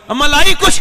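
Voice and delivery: put-on high, loud child's plea; hungry child. Child grabs his mother's hem, high loud begging. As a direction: cry out like a starving little boy.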